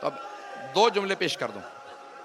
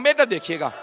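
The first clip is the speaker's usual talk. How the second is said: pleading; 4 dB louder than usual. Real, not acted. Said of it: "हाथ जोड़ के कहूंगा".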